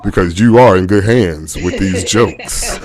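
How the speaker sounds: slow, lightly voiced commercial announcer; a hint of insurance-ad spokesman; Allstate commercial guy. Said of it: "You sound like the guy from the Allstate commercial".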